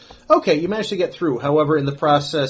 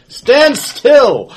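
loud sharp yell; shouting; 10 semitones higher, 9 dB louder than usual. Acted. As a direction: bark the order at them. Outlaw shouts at fleeing target.

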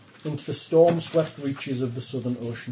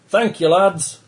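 shouting; 5 semitones higher, 7 dB louder, slower than usual. A narrator's reading. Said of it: "he shouts".

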